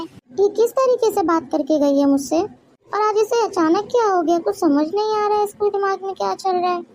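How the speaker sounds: fuming. Acted. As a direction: let the hurt boil over into anger. Mother-in-law fumes after bahu leaves. (सास बहू के जाने के बाद गुस्से से भड़कती है)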